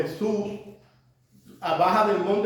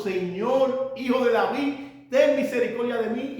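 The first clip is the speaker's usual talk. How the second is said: crying out; 4 semitones higher than usual. Retold or imitated. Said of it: "Esa mujer estaba clamando".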